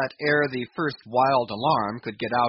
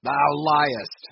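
loud furious retort; angry accusation; 3 semitones higher, 7 dB louder than usual. A narrator's reading. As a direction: bark it at him angrily. Ahab smites lying steersman.

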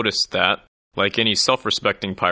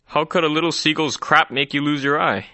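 higher, baffled barkeep voice; puzzled bartender; 6 semitones higher than usual. A narrator's reading. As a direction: ask it in disbelief, pitched up.

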